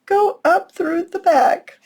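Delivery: high, tearful laughing voice; crying with laughter. Real, not acted. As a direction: carry on while real laughter breaks through. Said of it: "I'm crying".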